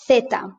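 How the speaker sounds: zeta with TH at the start; European Spanish TH. Shown as a demonstration. Teacher showing standard European Spanish zeta with TH. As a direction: say zeta with TH, unhurried. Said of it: "in the standard Spanish from Europe".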